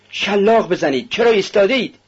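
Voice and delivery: high, impatient call; urging shout. A narrator's reading. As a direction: goad them on, pitch climbing. Onlooker urges on the beating.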